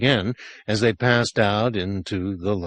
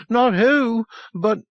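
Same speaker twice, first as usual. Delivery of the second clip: higher, louder correction; insistent boy; 13 semitones higher, 3 dB louder, slower than usual. A narrator's reading. Boy corrects the sergeant, higher and insistent. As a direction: correct him firmly.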